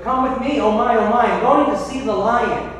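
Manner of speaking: frantic chicken. Acted. Chicken Little urging Henny Penny.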